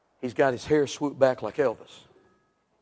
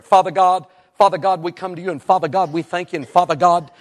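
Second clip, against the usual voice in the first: higher, louder rattled-off prayer parody; mock repetitive prayer; 4 semitones higher, 6 dB louder than usual. Teasing how Cajun ex-Catholics pray, an exaggerated fervent prayer. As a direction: rattle off a fervent prayer, hammering "Father God". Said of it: "All of them go a hundred times in a prayer".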